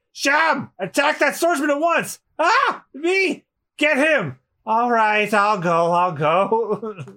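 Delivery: high, jittery cowardly guard voices; scared cat guards. Acted. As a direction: whimper like cowardly sidekicks.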